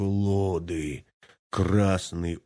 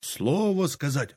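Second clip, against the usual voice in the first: bear's bark; 6 semitones higher than usual. Acted. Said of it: "рявкнул медведь".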